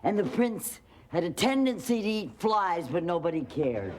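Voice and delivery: ordinary talk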